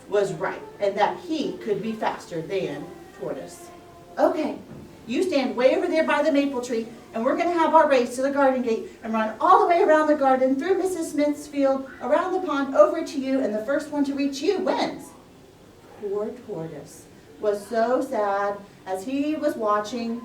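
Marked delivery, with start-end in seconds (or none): 4.2-15.1 bossy hare. Acted. Hare giving race orders.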